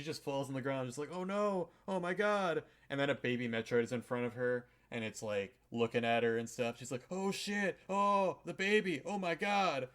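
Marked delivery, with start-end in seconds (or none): 1.1-2.6 high, louder mock distress; mock panic. Samus voiced falling shot. 7.1-9.9 high, loud hammed-up panic over the baby; mock panic. Samus voiced seeing baby Metroid.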